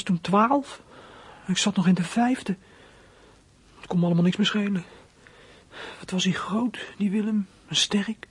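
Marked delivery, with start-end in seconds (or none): 6.0-8.3 hushed, breathy admiration; a boy's awed hush; awed whisper. Acted. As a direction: whisper it as if he's still huge. Awed memory of big Willem.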